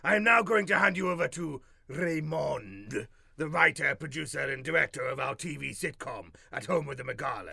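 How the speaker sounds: booming alien overlord; grandly menacing conqueror; dragon voice. Acted. Alien overlord broadcast announcement.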